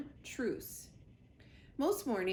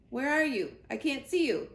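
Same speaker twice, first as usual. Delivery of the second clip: louder, higher frog calling out; croaking frog; 4 semitones higher, 5 dB louder than usual. Acted. A frog calling for its mate, searching loud. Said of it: "One would croak".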